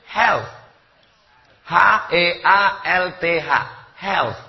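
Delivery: "Health" ending in a clear th like Arabic tsa; th sound. Shown as a demonstration. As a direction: stress the final th of "Health". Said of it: "ada sa".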